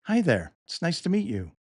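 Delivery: friendly scripted hello; warm greeting. Shown as a demonstration. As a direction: greet someone warmly, pitch lifting. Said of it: "I might greet someone warmly".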